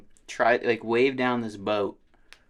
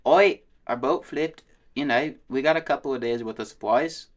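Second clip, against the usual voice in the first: chill Australian; 4 semitones higher, 4 dB louder than usual. Retold or imitated. Unbothered boater radios Coast Guard, chill mock Australian accent. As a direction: imitate an easygoing Australian on the radio. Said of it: "he was so chill about it".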